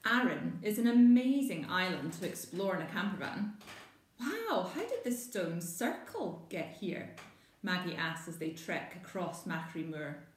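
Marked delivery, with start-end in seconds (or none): 4.2-7.2 high, wondering wow; amazed child. Acted. Maggie marvelling at the ancient stone circle, wide-eyed wonder. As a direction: gasp in awe at the stones.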